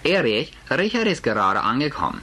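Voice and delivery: gerufen. Acted. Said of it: "und rief".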